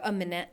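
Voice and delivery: "A minute" alone, with "wait" left off; short "A minute" as a complete phrase; dropped first word. Retold or imitated. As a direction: say just "A minute", clipped from the full phrase. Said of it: "she's dropped it".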